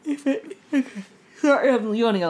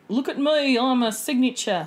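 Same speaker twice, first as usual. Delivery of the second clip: a mildly raised, lightly boastful look at me; showy signature bake; 2 semitones higher than usual. Pretend. Voicing a boastful bake in a mild show-off tone. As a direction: show off like a preening cake.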